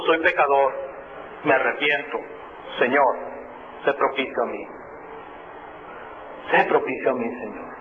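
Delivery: low, hushed plea for mercy; humble quiet prayer. Acted. The publican begs God for mercy, low and hushed. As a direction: soften to a repentant murmur.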